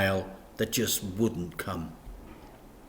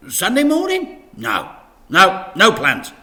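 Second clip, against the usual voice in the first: high rising question then slow denial; wary Dad; 10 semitones higher, 12 dB louder than usual. A narrator's reading. Dad cornered about Sunday, wary and reluctant. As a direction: caught out, hesitant.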